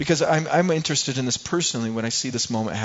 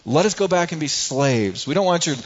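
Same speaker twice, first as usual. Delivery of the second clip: rebellious; 3 semitones higher, 4 dB louder than usual. Retold or imitated. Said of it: "They are saying".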